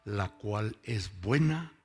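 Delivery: preacher reading scripture slowly; emphatic Bible reading. Real, not acted. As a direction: read the verse out slowly and firmly. Reading Bible version aloud.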